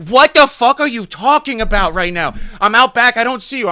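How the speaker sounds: very high, loud, baffled yell; squawk, searching the yard; imitating Mario. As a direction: friend hunting for the caller outside. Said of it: "And he's like".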